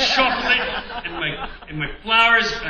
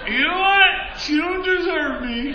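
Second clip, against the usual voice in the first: mock pep talk; 9 semitones higher, 4 dB louder than usual. Pumping himself up after heartbreak.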